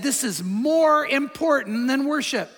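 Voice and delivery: slow, measured quote of Jesus; quoting Jesus. Retold or imitated. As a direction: give Jesus' words weight, slowly. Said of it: "Jesus said".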